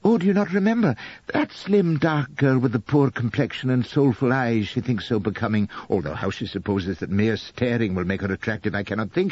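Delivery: a gentle hint of a doting young wife; lightly voiced young wife, adoring. Narrator voices Elspeth.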